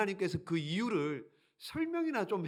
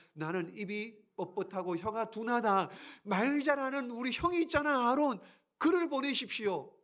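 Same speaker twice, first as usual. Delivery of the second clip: higher, pleading excuse; much higher, anxious excuse; reluctant Moses; 6 semitones higher than usual. Acted. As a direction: push the job onto his brother. Moses refusing.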